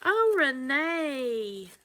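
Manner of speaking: fighting back grateful tears; overwhelmed, voice breaking with emotion; tearful. Real, not acted. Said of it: "wipe my tears up".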